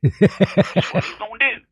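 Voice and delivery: put-on folksy drawling old-timer; old prospector. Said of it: "Don't you talk to Joey".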